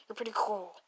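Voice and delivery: low, whispered compliment; quiet admission. Acted. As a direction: mumble it softly, almost to yourself.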